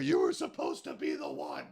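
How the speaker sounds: a hushed, heavy Vader-style delivery; Darth Vader impression. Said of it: "Darth Vader and Luke Skywalker".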